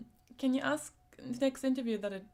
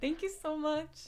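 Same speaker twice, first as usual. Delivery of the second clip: overwhelmed thanks; 6 semitones higher, slower than usual. Real, not acted. Streamer thanking a viewer for a wish list gift, gushing. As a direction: bubble over with real gratitude. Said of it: "I'm gonna turn red".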